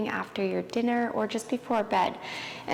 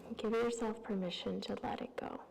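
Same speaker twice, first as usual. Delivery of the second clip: soft, unhurried yoga-teacher voice with long pauses; guided yoga relaxation; 16 dB quieter than usual. Real, not acted. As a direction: ease them through each breath, softly. Leads calming yoga practice.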